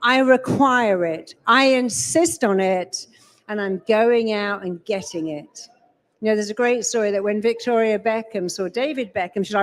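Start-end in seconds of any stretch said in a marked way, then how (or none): 0.0-5.7 slow, firm declaration of intent; calm, unshakable resolve; firm and certain. Shown as a demonstration. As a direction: state it like a done deal. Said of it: "What works is saying".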